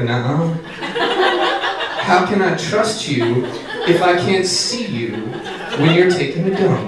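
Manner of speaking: slow, deadpan dog voice. Retold or imitated. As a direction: give the dog a slow knowing voice. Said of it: "He's like".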